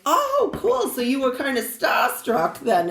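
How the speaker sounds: put-on high "oh", then Boston-accented reply; imitated Boston lady. Massachusetts lady reacting to the story, imitated Boston accent. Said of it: "And she's like".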